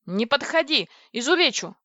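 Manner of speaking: mildly shouted threat; threatening warning. Acted. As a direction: warn them off sharply. Threatening approaching bandits.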